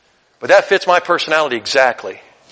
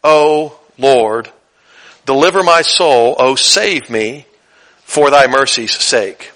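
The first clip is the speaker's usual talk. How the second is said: quiet earnest plea; 3 semitones lower, slower than usual. Retold or imitated. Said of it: "He says".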